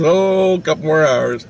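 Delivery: breezy reply. Retold or imitated. Driver answering how much further to go, breezy. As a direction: act out the driver's answer, voice lifted. Uncle's offhand answer, acted.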